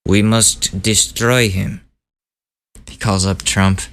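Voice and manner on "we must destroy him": slow, badly faked Russian accent; mock Russian accent, words drawn out. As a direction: play Putin with a clumsy Russian accent. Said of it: "I can't do a Russian accent".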